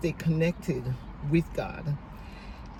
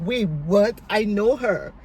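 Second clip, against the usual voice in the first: higher-pitched double take; retold surprised recognition; 3 semitones higher, 4 dB louder than usual. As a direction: act out a startled moment of recognition. Retold cousin recognizing the wife.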